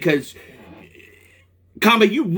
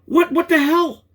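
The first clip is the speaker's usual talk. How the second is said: exasperated disbelief; 9 semitones higher, slower than usual. Real, not acted. Reacting to useless help.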